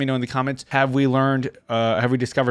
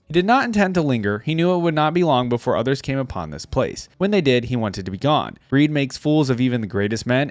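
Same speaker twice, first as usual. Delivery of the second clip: measured storyteller read of a legend; story narration. A narrator's reading. Reading a Shurima legend aloud to his viewers, story narration.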